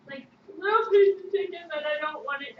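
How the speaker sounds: panicked whine. Real, not acted. Panic rising while grabbing bird.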